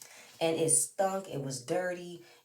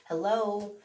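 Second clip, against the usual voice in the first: louder, higher incredulous hello; exasperated hello; 6 semitones higher, 5 dB louder than usual. Real, not acted. Vlogger calling out to Joy in a louder, higher, incredulous voice. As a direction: snap her to attention.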